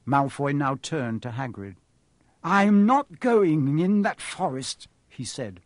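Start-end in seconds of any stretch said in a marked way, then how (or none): 2.4-4.9 high, drawn-out refusal; note of panic. A narrator's reading. Boy refusing the groundskeeper, panicky. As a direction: refuse with rising alarm. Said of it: "note of panic in his voice".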